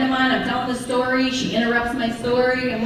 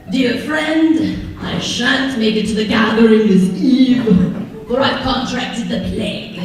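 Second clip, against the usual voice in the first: olde-timey letter; 3 dB louder than usual. Retold or imitated. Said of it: "parchment and a quill".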